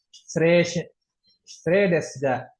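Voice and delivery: Shire as "shre", desu as "des"; silent i and u. Shown as a demonstration. Teacher demonstrating a phrase, silent vowels. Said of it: "I-nya nggak dibaca, U-nya".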